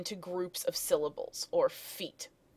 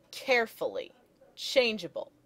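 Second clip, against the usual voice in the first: "carefully, changeable" hit on CARE and CHANGE, higher start; dactylic stress; 4 semitones higher than usual. Shown as a demonstration. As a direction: stress the first syllable, let two fall away in "carefully, changeable". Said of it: "Dactylic meter".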